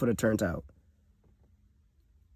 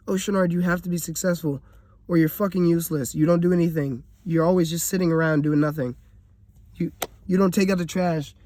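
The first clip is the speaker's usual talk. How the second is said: higher, whiny nagging relative voice; mocking family voice; 5 semitones higher than usual. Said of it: "that's basically what my family is".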